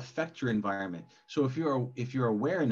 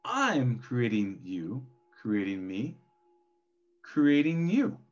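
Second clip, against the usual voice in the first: slow echo call; slower than usual. Acted. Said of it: "yelling into a cave and it's the echo".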